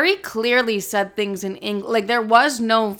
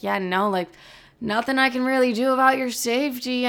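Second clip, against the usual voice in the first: dismissive boss voice; 3 semitones higher than usual. Retold or imitated. Derek voiced dismissing her safety.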